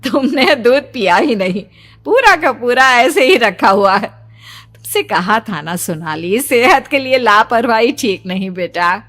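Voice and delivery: a mother chiding gently with a smile; mother amused while scolding Sonali about the untouched milk; fond mother scolding. Acted. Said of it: "माँ ने हंसते हुए".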